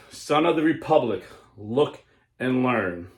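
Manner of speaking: loud, slow, commanding pronouncement; slow, solemn mysterious voice. Acted. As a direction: boom it out like a voice from beyond. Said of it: "I heard a voice saying".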